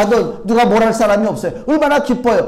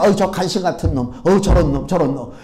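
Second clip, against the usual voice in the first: mock scolding at TV; 6 semitones lower than usual. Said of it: "드라마 이렇게 볼 때 욕하잖아요".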